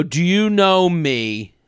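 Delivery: drawled "Do you know me?" slow and smug; mock the smug question slowly. Mocking a fan in a bathroom, slow and smug. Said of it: "you go".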